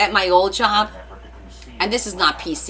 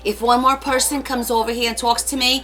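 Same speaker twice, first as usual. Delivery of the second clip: higher-pitched Staten Island rant; Staten Island accent; 4 semitones higher than usual. Shown as a demonstration. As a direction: play a fed-up Staten Island local. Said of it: "start talking like I'm from Staten Island".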